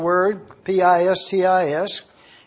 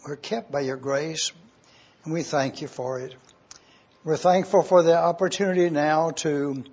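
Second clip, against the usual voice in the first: reverent, unhurried prayer voice; 2 semitones lower than usual. Acted. Pastor praying for his congregation, reverent prayer voice. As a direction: pray humbly to the Father before the study.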